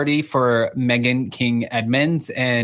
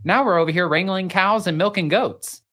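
mock the son's sudden cowboy act; mock disbelief; 6 semitones higher than usual. Ranting at cowboy transformation.

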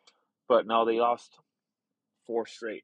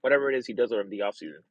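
imitating LeBron; 3 semitones lower than usual. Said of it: "Normally he's like".

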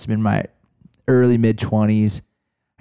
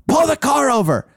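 higher, blunt commanding voice; blunt New York mentor; 12 semitones higher, 3 dB louder than usual. Retold or imitated. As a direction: order the driver to stop like a no-nonsense mentor. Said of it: "kinda New York ways".

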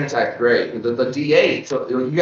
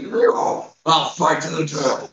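dopey cartoon bellow; 6 semitones higher, slower than usual. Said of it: "he's just like".

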